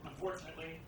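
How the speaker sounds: one word at a time, halting; staccato. Real, not acted. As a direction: drop each word separately, with pauses. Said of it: "one word at a time".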